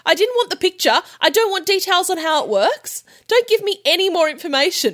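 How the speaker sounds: fed-up, can't-believe-this disbelief; exasperated. Real, not acted. Cohost ranting at the sender.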